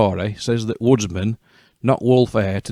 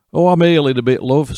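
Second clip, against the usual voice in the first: high, louder squeaky fake granny voice; 6 semitones higher, 4 dB louder than usual. Wolf pretends to be ill for Red Riding Hood, squeaky and high. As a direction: squeak it out like a poorly old woman. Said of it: "squeaked Wolf".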